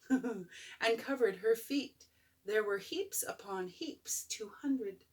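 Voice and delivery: gentle storybook reading; bedtime story. A narrator's reading. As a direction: read it like a bedtime book. Reads picture book aloud.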